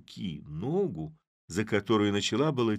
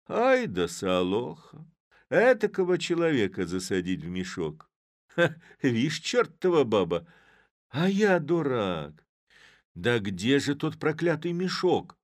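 Chub, angry at himself; 6 semitones higher, 5 dB louder than usual. A narrator's reading. Chub after the mayor leaves, loud and indignant. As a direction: berate the woman and yourself.

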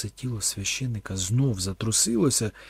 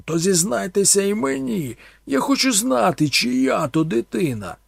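shout; 9 semitones higher, 7 dB louder than usual. A narrator's reading. Thorn shouts at the priest, accusing. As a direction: shout it at him.

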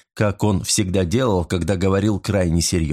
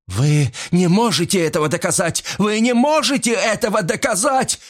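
gasped protest; 12 semitones higher than usual. A narrator's reading. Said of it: "выдохнула дама".

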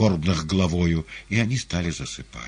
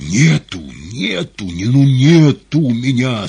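desperate, much louder shout; terrible shout; 7 semitones higher, 13 dB louder, slower than usual. A narrator's reading. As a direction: yell it in panic. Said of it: "страшным голосом прокричал".

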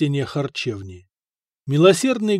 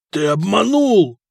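slow, drawn-out accusation, raised and voiced; doomed; 5 semitones higher, 5 dB louder, slower than usual. A narrator's reading. Foka on the ground facing his cheater, doomed. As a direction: drag out the accusation as a doomed man. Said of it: "обречённо прошептал Фока".

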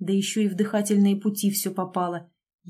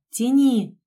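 loud, higher-pitched cry to pull; shout; 4 semitones higher, 7 dB louder than usual. A narrator's reading. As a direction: shout out the order to a helper. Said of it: "и крикнула". (крик, громкая команда)

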